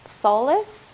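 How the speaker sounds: "Solace?" repeated as a surprised question with a rising end; puzzled echo. Real, not acted. Channeling a word to her viewers, then surprised by it. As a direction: echo "Solace?" with a lifted, wondering tone as if hearing it for the first time. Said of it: "I don't even know that word".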